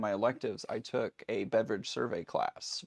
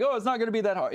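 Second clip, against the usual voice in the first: mock overconfident student; 9 semitones higher, 4 dB louder, much faster than usual. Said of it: "people are like".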